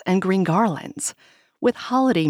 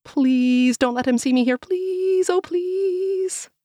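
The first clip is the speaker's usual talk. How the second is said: trembling whisper; 13 semitones higher than usual. Acted. Hiding, begging not seen.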